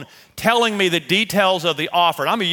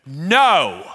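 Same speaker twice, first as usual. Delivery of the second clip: mock yell; 4 dB louder than usual. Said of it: "God's yelling at me".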